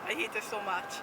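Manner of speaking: speaking with a numb mouth. Real, not acted. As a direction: talk like your mouth is numb from the dentist. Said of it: "my whole mouth is numb".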